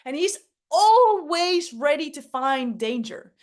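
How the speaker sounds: lightly voiced nervous alarm-raiser; Danny Danger voice. Shown as a demonstration. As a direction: play the jumpy danger-spotter, pushing forward. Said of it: "Danny Danger talks a little bit like this".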